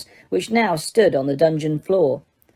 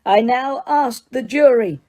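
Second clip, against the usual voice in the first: shouting; 6 semitones higher than usual. Acted. Judge shouting to the jury over the boy. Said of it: "shouted Mister Crouch".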